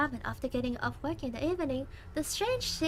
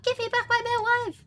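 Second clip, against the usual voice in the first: louder yell, "my" pushed hard; yelling for help; 8 semitones higher, 6 dB louder than usual. Shown as a demonstration. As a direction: call it out like a cry for help. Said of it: "I'm gonna yell for help".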